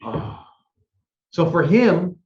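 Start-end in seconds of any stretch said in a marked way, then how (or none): 0.0-0.4 soft, breathy sigh of dread; deflated exhaled "oh"; dismayed "oh". Acted. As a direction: act out a stressed groan, quietly. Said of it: "it's stressful".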